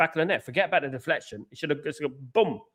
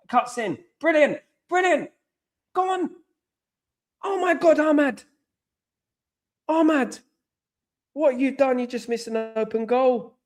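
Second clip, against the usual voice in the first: much higher, rising to a frantic pitch; excited commentary; 7 semitones higher than usual. Real, not acted. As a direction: call the attack like you're living every touch. Live chance, excited commentary.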